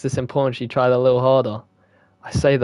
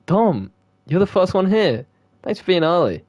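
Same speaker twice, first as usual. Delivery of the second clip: put-on girl character voice; 5 semitones higher than usual. Voicing Monika greeting Dom.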